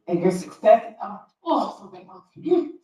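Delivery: fighting back tears mid-sentence; choking up. Real, not acted. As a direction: voice catching, words breaking off. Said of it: "Let me get it together 'cause I'm angry".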